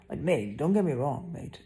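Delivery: mock British "mate" slang; British accent. Real, not acted. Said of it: "Who says mate?".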